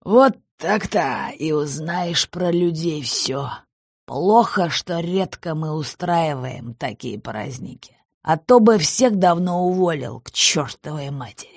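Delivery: put-on slow, slurred drunken rambling. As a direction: talk like a tipsy boss. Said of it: "пьяным взором".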